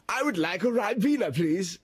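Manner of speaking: high, hammed-up Scottish accent; put-on Scottish accent. Young man ordering at a bar, mock Scottish accent. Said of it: "in, uh, a Scottish accent".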